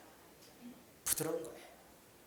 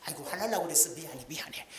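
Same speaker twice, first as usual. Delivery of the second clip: apologetic soothing. Acted. Preacher models husband calming spouse, apologetic soothing. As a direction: back down gently, softening into the apology. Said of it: "막 그렇게 얘기하지".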